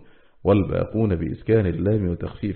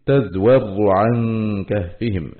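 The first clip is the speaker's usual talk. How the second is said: slow, drawn-out tajweed reading; measured recital of scripture; Quranic recitation; much slower than usual. Shown as a demonstration. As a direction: recite the verse words slowly with held nasal sounds. Quranic words recited within lesson.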